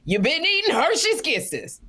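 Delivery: light mock diva tease; high teasing imitation. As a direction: lilt it up like gossip. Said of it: "She said".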